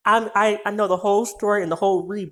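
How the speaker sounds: real frustration, words tumbling out; mad, pissed off. Real, not acted. Speaker can't get the story out, mad and pissed off. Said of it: "I'm so fucking mad and pissed off".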